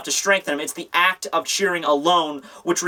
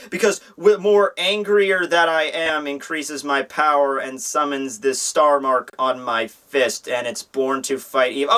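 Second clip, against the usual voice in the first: slow, lightly put-on declaration of power; pompous fighter; 3 semitones lower, slower than usual. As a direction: drag it out, sinking lower as you declaim. Villain's power speech, voiced slowly.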